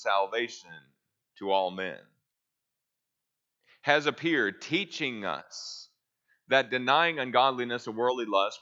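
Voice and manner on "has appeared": Has appeared punched as the first word; stress on has appeared. Shown as a demonstration. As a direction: hit Has appeared hard to open the sentence. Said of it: "that is actually the first word".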